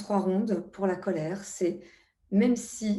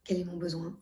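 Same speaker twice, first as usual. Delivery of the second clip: the key question again, much softer, turned inward; soft inward echo; 5 dB quieter than usual. Shown as a demonstration. Coach repeats the key question to herself, softly. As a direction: let it drop to a soft murmur to yourself. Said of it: "la question clé".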